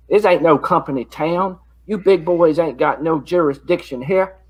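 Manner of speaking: lightly voiced old man calling out; old man's voice. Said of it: "make my voice like an old man's voice".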